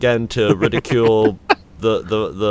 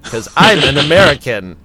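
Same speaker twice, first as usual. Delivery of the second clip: British-does-American accent; 4 dB louder than usual. Shown as a demonstration. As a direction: fake American accent, every phrase heavily spelled out. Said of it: "doing a British person doing an, uh, American accent".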